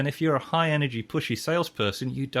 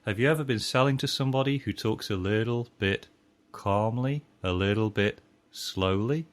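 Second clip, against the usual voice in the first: calm and slow; 2 semitones lower than usual. Shown as a demonstration. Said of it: "Voice tonality, this is really important".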